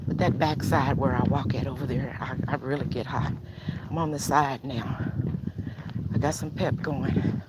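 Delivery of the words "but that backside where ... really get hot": breathing hard while walking; winded from walking. Real, not acted. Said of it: "Sorry for breathing so hard on y'all".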